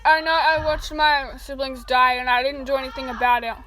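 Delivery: loud, desperate confession; a loud, broken confession to a friend; distraught outcry. Acted. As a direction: cry it out, pleading for forgiveness.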